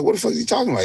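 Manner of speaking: high, rapid baffled aside; baffled reaction. Retold or imitated. Artist backstage wondering what his friend means, baffled high aside. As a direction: rush it out high, totally lost.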